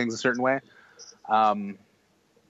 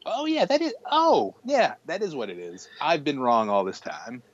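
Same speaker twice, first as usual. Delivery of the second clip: realization; 5 semitones higher than usual. Retold or imitated. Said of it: "And I'm like".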